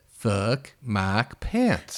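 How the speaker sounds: slow drawn-out bleating goat voice. Acted. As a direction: stretch every word like a goat. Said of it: "I said".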